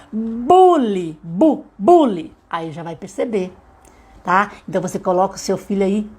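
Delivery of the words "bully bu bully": BULLY stretched slowly, then just BU, then bully; word sounded out. Shown as a demonstration. Teacher helping a child identify sounds in bully, drawn out. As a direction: isolate the bu in bully by drawing it out. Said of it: "falando o som".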